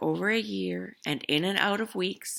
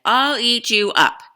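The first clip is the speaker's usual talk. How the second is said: Max shouting; 5 semitones higher, 15 dB louder than usual. Acted. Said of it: "and Max said".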